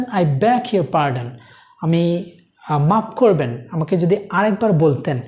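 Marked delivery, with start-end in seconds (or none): 0.0-1.3 polite. Shown as a demonstration. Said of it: "নম্রভাবে তাকে বলছেন".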